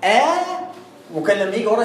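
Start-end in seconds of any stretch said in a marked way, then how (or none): 0.0-0.2 "آ" as a pure open long vowel; a demonstrated long alif on "آ"; pure alif demo. Shown as a demonstration. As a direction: sound "آ" as alif, with no second glottal stop. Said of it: "لو ألف كنت قلت إيه".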